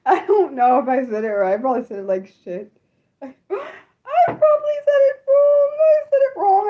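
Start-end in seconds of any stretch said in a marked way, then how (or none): 3.2-6.7 high, drawn-out wail; distressed wail. Real, not acted. Streamer fretting she botched a viewer's name, distressed wail. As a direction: cry out in dismay, pitch way up.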